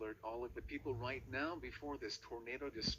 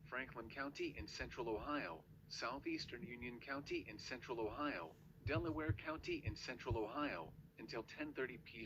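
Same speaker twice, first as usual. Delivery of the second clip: flat text-to-speech emergency alert voice; robotic warning read. Acted. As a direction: read it like an automated weather bot.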